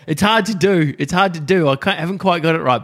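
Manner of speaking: hammed-up frustrated whistler; mock struggling whistler. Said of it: "You're like".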